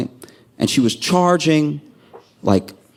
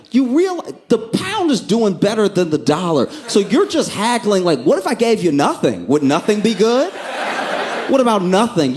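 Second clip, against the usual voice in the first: raised, higher-pitched indignant tirade at the haggler; furious rant; 4 semitones higher than usual. Retold or imitated. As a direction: tell her off, fed up and higher. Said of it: "I'm getting furious".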